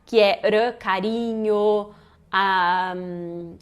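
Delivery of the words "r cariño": "carinho" slowly with a single tap R; weak tapped R. Shown as a demonstration. Teacher showing the weak R, slow single tap. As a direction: flick the tongue once for the R of "carinho". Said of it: "o R fraco".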